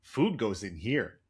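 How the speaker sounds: lightly voiced simple-minded cartoon child; a hint of dopey impression, drawn out; Homer's inner child. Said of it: "what Homer's inner child says".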